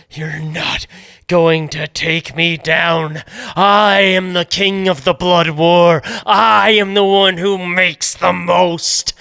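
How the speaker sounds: a hint of a gloating gang boss; proud, half-hearted villain boast; lightly voiced boasting villain. Game master as the villain taunting the player, mild gloat.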